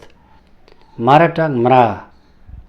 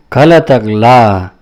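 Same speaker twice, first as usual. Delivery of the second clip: "घ लातक ला" drawn out slowly and louder, each part apart; slow demo take; 8 dB louder, much slower than usual. Shown as a demonstration. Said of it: "teacher repeats syllable twice". ("घ लातक ला" धीरे-धीरे, ज़ोर से)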